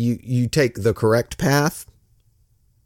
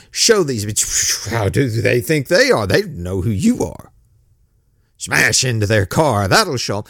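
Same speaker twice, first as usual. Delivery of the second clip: a lower, proud inner voice; prideful voice; 4 semitones lower than usual. Retold or imitated. The pastor voices the proud inner voice urging revenge, prideful. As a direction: let pride speak, low and sure. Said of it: "it's a prideful voice".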